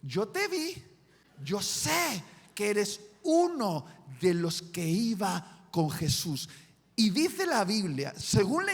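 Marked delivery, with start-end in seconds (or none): 0.0-6.5 put-on servant girl. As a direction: point him out like a young maid. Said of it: "una sirvienta del sumo sacerdote dice".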